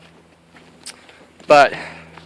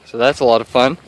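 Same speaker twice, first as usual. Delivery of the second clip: winded, short of breath after walking. Real, not acted. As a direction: talk through heavy breathing. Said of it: "Excuse me, I'm out of breath".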